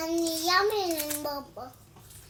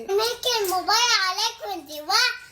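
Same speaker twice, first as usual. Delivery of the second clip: raised, higher scolding voice; yelling at her; 4 semitones higher, 5 dB louder than usual. Real, not acted. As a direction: snap it loudly at the other person. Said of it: "انتي بتزعقي لي؟". (بزعيق)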